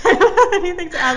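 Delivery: high, loud, helpless laughter through the words; laughing. Real, not acted. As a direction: say it while cracking up. Laughs at identical answers.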